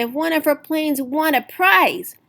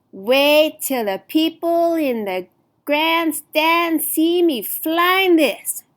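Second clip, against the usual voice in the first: eager; 6 semitones higher, slower than usual. Acted. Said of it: "Violet said to Orville".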